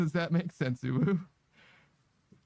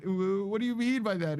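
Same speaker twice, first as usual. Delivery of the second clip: cutesy ooh; 3 semitones higher than usual. Pretend. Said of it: "say ooh for ten minutes".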